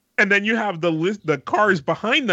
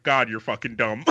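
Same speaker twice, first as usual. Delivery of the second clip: laughing insult; 7 semitones lower, 4 dB quieter than usual. Retold or imitated. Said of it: "I was like".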